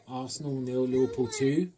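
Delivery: celebratory shout. Real, not acted. Celebrating the final score.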